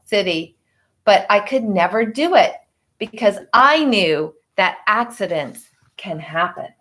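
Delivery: put-on reading a picture book to children; story narration. A narrator's reading. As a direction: tell it gently to the class. Teacher reads picture book aloud.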